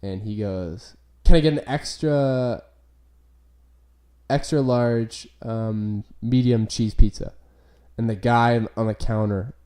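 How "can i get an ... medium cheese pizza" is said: lightly voiced stoned customer, halting; stoned kid. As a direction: imitate a stoned kid ordering with long pauses. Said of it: "there's a stone kid, and he goes".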